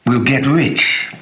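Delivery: shouted dream. Retold or imitated. Two boyhood friends shouting their dream, slow ringing shout. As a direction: call it out like a boyhood promise. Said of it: "the way we used to shout".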